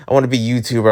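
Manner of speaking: low, quick imitation of past ambition; mock wishful younger self; younger self wishing. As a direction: recite an old dream in a low, hurried voice. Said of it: "I was like".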